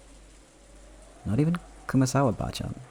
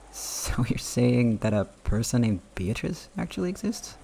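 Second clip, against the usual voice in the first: slow, laughing disbelief; 3 semitones higher than usual. Acted. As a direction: laugh it off slowly. Battler laughs off the claim.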